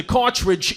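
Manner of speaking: "cartridge" said in place of cartilage; wrong word. Retold or imitated. Dad reporting on his bad knee, "cartridge" for cartilage. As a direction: swap cartilage for "cartridge" in a regional accent. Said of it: "You mean cartilage?".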